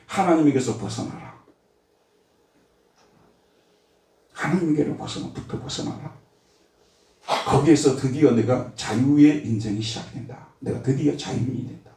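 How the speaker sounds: hushed lure toward freedom from God; devil's voice. Acted. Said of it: "마귀가 하는 얘기가 뭐냐면요".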